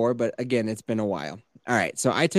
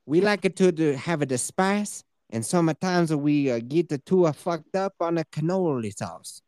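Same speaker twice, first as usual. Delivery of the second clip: fake Argentinian accent. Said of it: "doing my sweet Argentinian accent".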